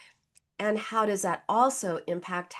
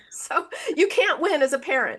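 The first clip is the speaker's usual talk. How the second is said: laughing; 4 semitones higher, 3 dB louder than usual. Real, not acted. Laughs at own story.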